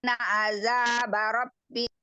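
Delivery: broken-up call audio; choppy, cutting-out connection; glitching robot. Real, not acted. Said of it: "Suaranya Bu Sulastri putus-putus".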